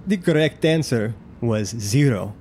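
slow, measured announcer voice; lightly voiced loudspeaker host; loudspeaker announcement. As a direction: give the result like a game show host. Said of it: "announcement on the loudspeaker".

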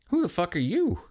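high startled man voice; surprised shout. Acted. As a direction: blurt it out in shock. Kevin and Chris startled.

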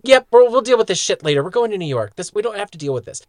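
loud, casual brush-off; dismissive character voice. Retold or imitated. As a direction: wave it off like it's nothing. Voicing the characters dismissing meteor.

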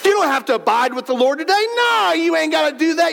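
mildly mocking voice of temptation; tempting inner voice. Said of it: "in my head says".

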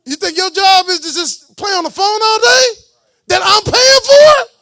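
put-on a parent tells the child off for refusing dishes, scolding loudly. Parent scolds child over chores.

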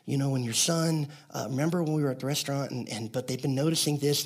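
soft, slightly hurried, hesitant confession; fast, in love. Retold or imitated. Youth pastor telling his boss why families leave, quiet and careful. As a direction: drop the volume and tread gently through bad news. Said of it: "I said it really fast. I tried to say it in love".

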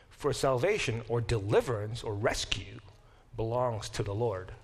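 hushed, breathy reading of the verse; whispered scripture. Acted. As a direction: let the last words drop to a whisper. Quoting scripture's closing line, hushed.

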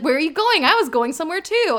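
shameless. Retold or imitated. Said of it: "she's so shameless".

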